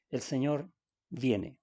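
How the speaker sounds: "El Señor viene" drawn out slowly, weight on "Señor"; slow solemn reading. Shown as a demonstration. Pastor reading Paul's warning to the church, slow and solemn. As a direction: let "El Señor viene" land slowly and heavily.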